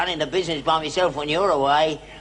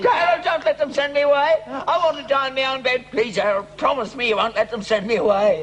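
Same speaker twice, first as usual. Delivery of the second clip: higher, begging plea, half-mock; hammed-up pleading; 5 semitones higher than usual. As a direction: beg him like a frightened old man. Father begs not to go.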